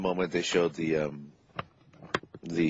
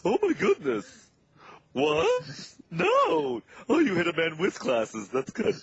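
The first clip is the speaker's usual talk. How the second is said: put-on high, quavering old-school comic voice; Ed Wynn voice; 13 semitones higher, much slower than usual. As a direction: do a dotty old Mad Hatter. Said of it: "perfect Ed Wynn voice".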